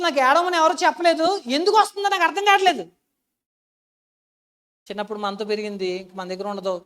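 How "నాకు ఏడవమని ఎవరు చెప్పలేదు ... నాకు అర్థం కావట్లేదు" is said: retold tearful outburst. Retelling crying at sister's farewell.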